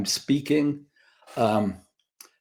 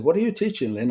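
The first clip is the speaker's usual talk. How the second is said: lifted higher, a light imitation of his sister's bright question; sister asking; 5 semitones higher, faster than usual. Sister greeting Lynn on his visit, higher quoted voice. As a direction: voice the sister's curious question up high.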